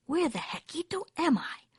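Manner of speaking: high kitten voice, puzzled; wondering aloud. A narrator's reading. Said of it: "wondered Skippito aloud".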